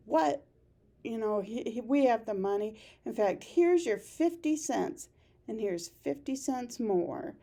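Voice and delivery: lightly voiced Walter, contemptuous; mock contempt. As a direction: throw the money down with scorn. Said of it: "he's very contemptuous".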